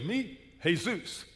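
slow "Jesus" said the Spanish way; drawn-out Spanish-accented name; imitated Spanish accent. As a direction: introduce yourself in mock Spanish-accented English. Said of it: "what that was in Spanish".

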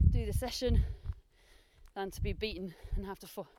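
talking while running uphill; out of breath on a hill climb; while jogging. Real, not acted. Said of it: "Time to run again".

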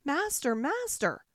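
high and loud cry for its master; harp crying out. A narrator's reading. Golden harp alerts the ogre, loud high cry. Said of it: "the harp cried out".

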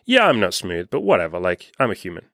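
easygoing, unbothered acceptance; relaxed shrug. Retold or imitated. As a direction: shrug it off calmly, no big deal. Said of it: "What is smooth is saying".

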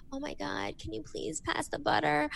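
high, pleading and overwrought; hammed-up desperate plea for butter. Shown as a demonstration. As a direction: beg for it far too much. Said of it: "It's not like you're like".

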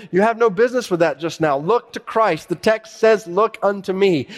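high, loud homespun preacher; animated country pulpit voice; unlearned preacher. Acted. Acts the lay preacher exhorting.

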